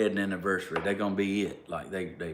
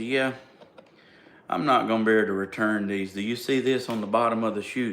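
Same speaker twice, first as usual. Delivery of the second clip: firm refusal; 5 dB louder, faster than usual. Retold or imitated. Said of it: "she said".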